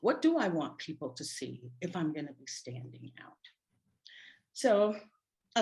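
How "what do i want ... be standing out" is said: softer, thinking to yourself; hushed, reflective self-questioning; inner musing. Retold or imitated. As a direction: quietly put the questions to yourself. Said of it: "I took that and I thought".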